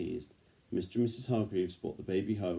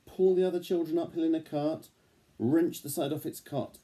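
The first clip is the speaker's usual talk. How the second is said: excited build; 9 semitones higher, 5 dB louder than usual. A narrator's reading. Baby's strength builds excitedly.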